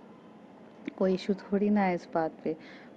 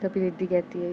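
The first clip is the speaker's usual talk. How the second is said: plain reading voice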